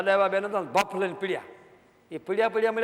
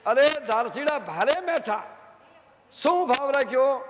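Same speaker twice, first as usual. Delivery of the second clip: Vaghri dialect; 5 semitones higher, slower than usual. Retold or imitated. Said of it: "એની ભાષામાં કીધું".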